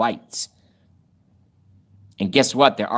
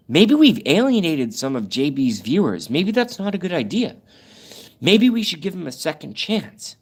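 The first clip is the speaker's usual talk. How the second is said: lightly put-on, higher pondering voice; mock regretful rivals; 6 semitones higher than usual. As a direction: imitate them having second thoughts. Voices rival channel's regretful private conversation.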